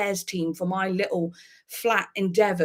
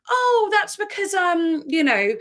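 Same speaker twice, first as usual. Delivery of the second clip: high, drawn-out stalling voice; exaggerated, louder fake explanation; mock scammer excuse; 10 semitones higher, 4 dB louder, slower than usual. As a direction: mimic a caller fumbling for an excuse.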